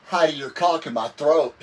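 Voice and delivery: words breaking into real laughter; can't hold the laugh telling the punchline; laughing through punchline. Real, not acted. Telling friends the funny story's punchline, laughing.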